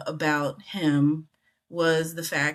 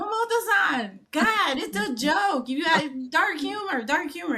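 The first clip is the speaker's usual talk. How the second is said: imitating pleading friends; 11 semitones higher than usual. Everyone reassuring the offended director.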